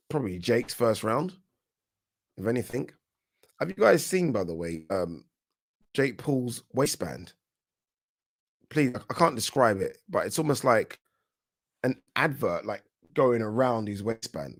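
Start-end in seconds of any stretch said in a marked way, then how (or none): 3.6-7.3 surprised. Real, not acted. Amazed at waistband again. 8.7-14.6 tripping over words; stammering, can't get it out; stuttering. Real, not acted. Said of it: "I'm stuttering my words here".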